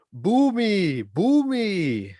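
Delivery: high, pleading boo me; playful high plea. Acted. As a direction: beg the crowd to boo you. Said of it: "inviting boos after pun".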